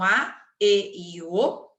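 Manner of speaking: slow, spaced E e O; slow letters. Shown as a demonstration. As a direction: draw out each vowel for the class. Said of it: "olha a primeira regrinha". ("E e O" falado devagar, letra por letra)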